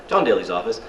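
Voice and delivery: receptionist's mock English accent, questioning lilt; bad English accent. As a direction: answer the phone in fake English tones. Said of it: "do a bad English accent".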